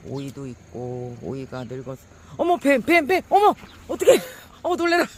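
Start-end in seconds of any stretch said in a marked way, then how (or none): 2.4-5.1 real shrieks, much higher and louder; panicked high screams of real fright; screaming in fright. Real, not acted. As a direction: scream at a snake dropping in front of you. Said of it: "소리를 너무 고락대기를 질렀나 봐요".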